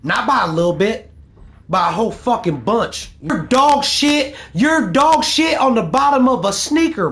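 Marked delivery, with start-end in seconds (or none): 3.2-7.1 higher, louder, slowly spat insult. Real, not acted. Gamer insulting his beaten rival, slow and loud. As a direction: stretch every word of the insult.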